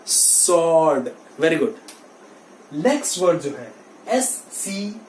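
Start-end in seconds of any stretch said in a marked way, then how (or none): 0.1-1.1 "sword" said SORD; silent w. Shown as a demonstration. Teacher closes the drill for students, w silent. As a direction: omit the w in "sword". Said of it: "W is silent".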